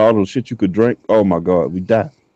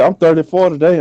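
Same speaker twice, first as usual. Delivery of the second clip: mock birthday girl; 8 semitones higher than usual. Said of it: "She said".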